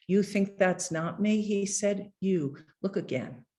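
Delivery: measured, unhurried poetry reading; poem reading. Acted. Poet reading his poem about his dying father to an audience, measured and unhurried. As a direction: read each line like a poet at a podium.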